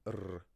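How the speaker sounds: r made as an isolated speech sound; bare R sound. Shown as a demonstration. Teacher mimicking a learner rejecting a Spanish sound, bare r. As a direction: sound out r alone, without its letter name. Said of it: "the sound".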